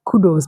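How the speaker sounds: "kudos" as KOO-dohz; plain oo, long o in "kudos"; former mispronunciation. Shown as a demonstration. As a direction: mistaken "kudos" without a y glide. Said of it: "I used to pronounce it as".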